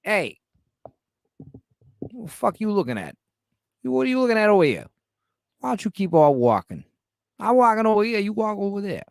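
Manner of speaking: hammed-up American gangster accent, high and punchy; cartoonish gangster accent picking a fight. Shown as a demonstration. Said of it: "Let me do a gangster accent".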